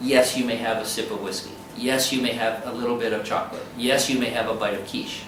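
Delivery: low, quick, measured permission; lightly voiced police. Police granting the patient small treats, lightly voiced. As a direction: lightly play a lenient officer, low and quick. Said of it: "They will govern you. They will say".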